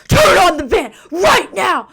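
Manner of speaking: high, loud furious shout; pissed-off cop. Retold or imitated. Angry cop ordering Braden to start the van, loud shout. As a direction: bark the order with a flashlight in his face. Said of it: "This police officer is pissed".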